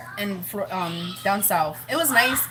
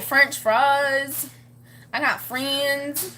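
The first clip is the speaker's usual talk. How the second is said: imitating a little girl's country talk, a bit higher; squeaky country toddler; 4 semitones higher, much slower than usual. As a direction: lightly mimic a squeaky small child, drawn-out words. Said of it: "like, the little squeaky voice".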